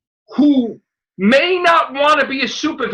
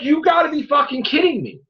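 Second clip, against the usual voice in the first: angry outburst; 5 semitones higher than usual. Retold or imitated. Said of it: "I'm like".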